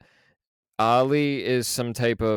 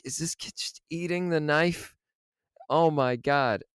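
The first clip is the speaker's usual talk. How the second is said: higher, half-hushed horrified question; horrified disbelief; 5 semitones higher than usual. Retold or imitated. Describing the cinema crowd's reaction, hushed and horrified. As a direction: ask it like the theater just gasped. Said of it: "It's like".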